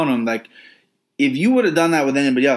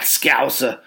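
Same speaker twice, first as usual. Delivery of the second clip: badly faked Scouse on one word; attempted Scouse accent. Shown as a demonstration. Podcaster trying out a fighter's accent, badly faked Scouse. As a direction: have a clumsy go at a Scouse accent. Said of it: "But I can't do accents".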